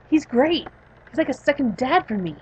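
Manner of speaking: put-on lightly bubbly young patient; acted delight. Patient praising her psychiatrist, acted delight.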